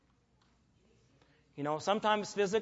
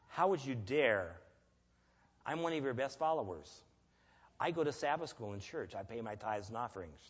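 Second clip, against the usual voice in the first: indignant complaint; 5 semitones lower, 6 dB quieter than usual. Retold or imitated. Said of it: "What do we do?".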